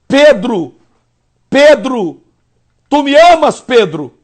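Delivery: pleading call of Jesus, rising on tu me amas; lightly voiced Jesus asking for love; Jesus calling Peter. Jesus voiced in retold scene.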